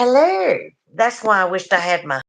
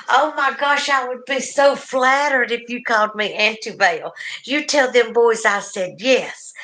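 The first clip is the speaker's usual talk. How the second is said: higher and bright, flattered; delighted surprise; 4 semitones higher than usual. Real, not acted. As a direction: gush with delight. Touched by the Auntie Belle request.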